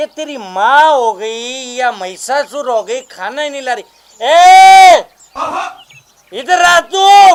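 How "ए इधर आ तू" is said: shouting, much louder, higher, slower. A hungry man still waiting for food calls someone over, shouting. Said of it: "क्यों चिल्ला रहे हो?".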